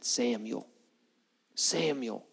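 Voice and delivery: low, softened voice of God calling a name. Retold or imitated. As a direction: call the name low and gently, drawn from afar. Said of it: "God called out at him".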